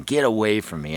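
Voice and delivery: a hissed get away from me, falling at the end; hissing deer. Retold or imitated. Hunter explaining the snort wheeze, mock hiss. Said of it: "it's just a hissing".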